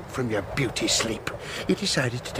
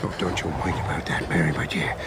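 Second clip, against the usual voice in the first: leering whisper; 3 semitones lower than usual. Acted. Villain seducing in low voice.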